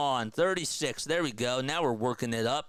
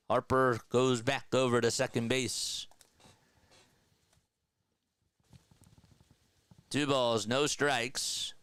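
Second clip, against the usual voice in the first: lively baseball play-by-play call. Acted. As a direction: call the action like a broadcaster. Streamer calls the game.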